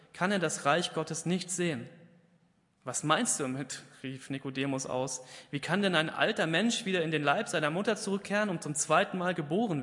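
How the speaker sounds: dramatic Bible reading, voicing Jesus and Nicodemus; scripture reading. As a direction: read the Gospel out to the congregation with weight. Reads Bible passage aloud.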